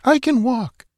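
put-on high girl's voice insisting weakly; gentle protest; pleading girl. A narrator's reading. Natala insists to Conan she can walk, high plea. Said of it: "she pleaded".

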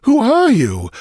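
high, loud, astonished question; bewildered demand. A narrator's reading. Stranger startled by real intruders, demanding in bewilderment. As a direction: demand it urgently, pitched high. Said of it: "a look of bewilderment".

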